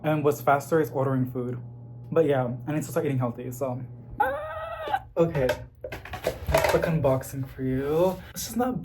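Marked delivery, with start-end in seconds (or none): 4.2-5.0 a sudden, very high startled cry; startled yelp. Real, not acted. Startled by something off camera, a very high yelp. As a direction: yelp in surprise.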